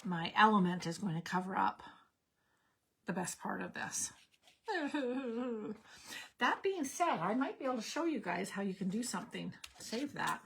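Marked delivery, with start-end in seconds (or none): 4.7-5.7 rueful laugh. Real, not acted. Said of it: "so I am very sad".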